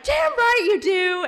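high, loud, drawn-out mock scolding; scolding retort. Grandma answers granddaughter's excuse about mistakes, scolding. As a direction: snap back as an indignant grandma.

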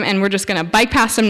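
usual speaking voice

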